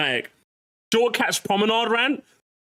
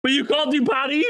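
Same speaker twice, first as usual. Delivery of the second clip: incredulous; 6 semitones higher than usual. Real, not acted. Mocking incredulous challenge.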